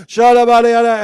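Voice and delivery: lightly voiced angels joking loudly; angels chatting. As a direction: toss it off like joking friends. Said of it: "They're going".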